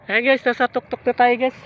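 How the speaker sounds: panting after the climb; winded, gasping between words; out of breath. Real, not acted. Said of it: "Hinihingal ako".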